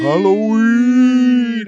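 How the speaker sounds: high, very loud, drawn-out cry; long gleeful holler. Pretend. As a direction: stretch the word into a huge holler. Joins in the holiday holler.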